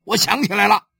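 loud high call after him. Acted. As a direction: shout to catch the waiter. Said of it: "他对跑堂的喊".

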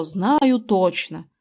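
slow, drawn-out imitation of a friend; mocking his refrain. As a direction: parrot him sarcastically. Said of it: "так и толдычил своё".

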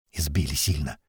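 low, soft, hoarse croak. Acted. Beaten man explaining his friend's injuries, hoarse croak. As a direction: croak it out, worn out and hurt. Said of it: "прохрипел Пухлик".

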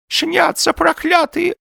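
high, slow, lisping cry; old man's lament. A narrator's reading. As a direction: toothless old man cursing in despair. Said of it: "донёсся до Остапа голос старика".

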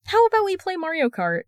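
high, bright playful offer; grinning. A narrator's reading. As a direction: pitch it up with a grin. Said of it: "he proposed with a grin".

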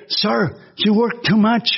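slow, deliberate English remark; lightly voiced airline agent, slow; quoted flight attendant. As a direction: mimic the airline worker gently chiding.

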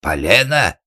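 loud, scornful yell. A narrator's reading. Organ grinder yelling back at the carpenter. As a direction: bellow the word back at him. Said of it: "заорал шарманщик".

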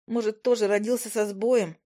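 usual speaking voice

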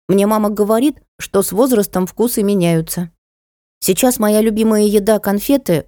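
lightly voiced chatty child; little boy, doubtful. (детским голоском, рассуждая)

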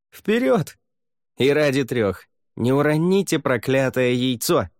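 high, loud captain's order; rally the crew forward; rallying command. Acted. Captain orders pirates off the ship, loud.

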